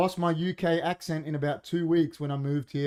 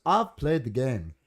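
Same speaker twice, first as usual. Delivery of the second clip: put-on Scottish accent. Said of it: "but he's Scottish".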